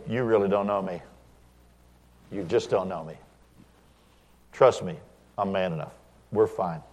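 low, quiet self-assurance; softly understated confidence, retold; unruffled reply. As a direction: answer a taunt calmly, dropping the voice.

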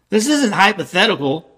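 ordinary delivery

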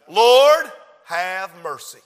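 fervent cry. Real, not acted. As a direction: cry out to God. Opening prayer, cry out.

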